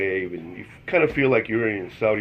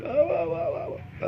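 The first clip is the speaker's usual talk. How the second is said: imitated distressed ohs. She saw him in trouble, mock high ohs. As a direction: mimic your own high little yelps. Imitates himself in a bad moment.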